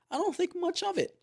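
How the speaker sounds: a voiceless whisper; whispered aside. Real, not acted. Telling viewers he ignored the yellow code, in a whisper. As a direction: whisper it like a secret.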